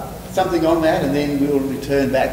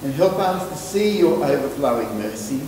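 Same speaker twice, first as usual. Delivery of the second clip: spoken prayer. Real, not acted. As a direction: pray it, slowing and softening towards Amen. Leads the closing prayer.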